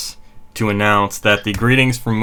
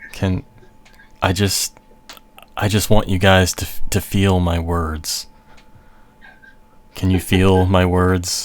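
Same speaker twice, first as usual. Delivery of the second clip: mock bedroom voice, much lower; 2 semitones lower than usual. Speaking jokingly to the others in the group, put-on bedroom voice. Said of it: "I'll put on my bedroom voice for you guys".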